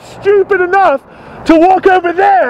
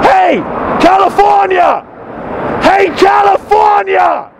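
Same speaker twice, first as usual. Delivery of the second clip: calling out. Real, not acted. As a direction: call out to get their attention. Calling a person across the road.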